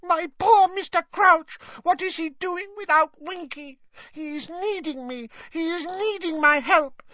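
very high, crying elf lament building to a wailing shout; Winky weeps for Mister Crouch, high and crying out; bawling house-elf. Acted. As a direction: sob over her lost master, ending in a wail. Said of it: "and bawled".

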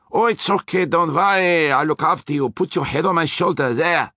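Austrian driver mocking a soothing man; hammed-up tender consoling, high. A narrator's reading. Hector mimicking the coddling man.

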